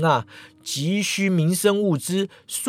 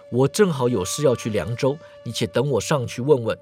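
put-on lower, steady older swordsman; a composed elder brother, lightly voiced; calm senior brother; 5 semitones lower, 3 dB quieter than usual. Zhuang Sheng speaking.

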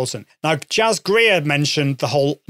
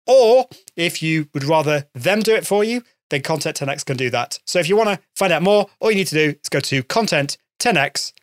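upbeat sponsor read. Acted. Host reads a sponsor message to podcast listeners, upbeat ad read.

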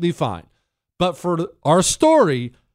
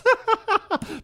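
rueful laugh. Real, not acted. Laughs at his own story.

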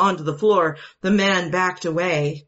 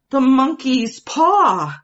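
loud and high, a sudden realisation; wife suddenly remembering the paw; excited declaration; 7 semitones higher, 7 dB louder, slower than usual. A narrator's reading. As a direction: blurt it out as the idea strikes. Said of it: "the woman declared".

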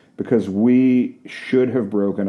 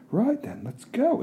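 put-on bossy girlfriend; 6 dB quieter than usual.

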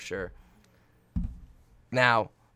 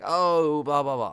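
mock chatter; 2 semitones higher, much slower than usual. Mimicking people's dismissive chatter.

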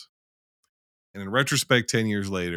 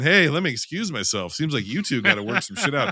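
polite excuse; 4 semitones higher than usual. Retold or imitated. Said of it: "I'm not going".

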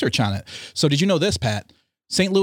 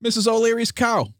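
mock proclamation; 10 semitones higher than usual. Mock-historical interjection.

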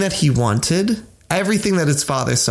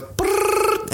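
phone ringing. Retold or imitated. On a call to destiny, imitating the phone ring. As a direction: mimic the phone line ringing. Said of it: "and it goes".

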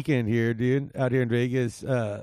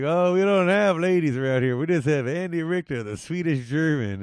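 lightly acted Old West local, starting higher; townsman in a joke; 3 semitones higher than usual. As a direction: offer the punchline as a lightly voiced local.

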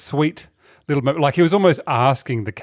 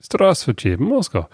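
light mock Russian accent; slower than usual. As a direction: greet in a thick Russian accent. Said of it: "I gotta get my Russian accent right".

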